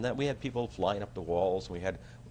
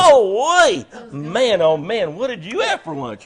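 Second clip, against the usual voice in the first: mock disgust; 13 semitones higher, 15 dB louder, slower than usual. Mock disgust at his breath.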